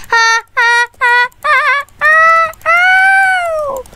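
high, loud cackling laughter; gleeful laughing. Real, not acted. Laughing at stuck enemy.

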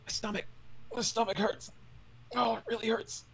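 high, strained pained voice; pained NPC. Acted. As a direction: groan out the pain. Sick NPC voiced in pain.

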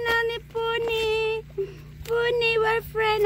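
fond high pet talk; cooing to pet. Real, not acted. Cooing to the pony.

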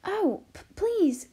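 high, loud, eager plea; bursting with excitement; excited cry. A narrator's reading. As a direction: beg excitedly, stumbling on the word. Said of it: "cried Arrietty excitedly".

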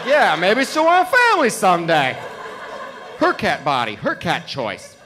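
mock earnest agreement. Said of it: "I'm like".

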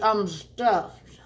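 breathy whisper of being full. Real, not acted. Declaring fullness.

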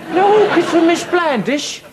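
high and eager, rising; excited. Acted. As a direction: perk up at the title. Excited echo of the title.

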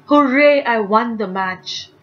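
a teacher's big happy hooray; excited cheer. Shown as a demonstration. Teacher cheering for the class, excited and loud. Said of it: "talking about strong feelings".

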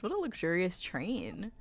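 ordinary talk

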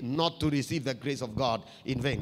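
weight the whole phrase "not to receive the grace of God in vain"; emphasis on the phrase. Shown as a demonstration. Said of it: "I want you to put an emphasis on that bit".

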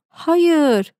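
a contained squeal, read aloud; mild narrated shriek. A narrator's reading. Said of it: "diye ciyak ciyak haykırdı". (hafif ciyak ciyak haykırış)

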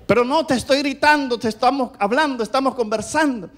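high, insistent denial; protesting husband. Acted. Husband denies yelling at his wife, protesting. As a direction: push back in a mock marital quarrel.

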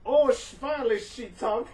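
hoch und laut vor Freude; begeistert. Real, not acted. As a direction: freudig überrascht ausrufen. Bird finally speaks.

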